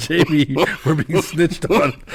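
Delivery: high, slow mock outrage; imagined listener's alarm. Host imagining the dealer hearing himself exposed, mock alarm. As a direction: draw it out as a comic complaint. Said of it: "Rick's listening to this going".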